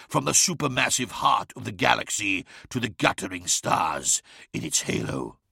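lightly voiced villain, measured and ominous; a hint of a taunting tempter, savouring the prophecy; deliberate, portentous villain delivery; taunting monster.

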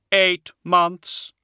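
high hollow voice stressing eight; grave reply. A narrator's reading. Attias voiced.

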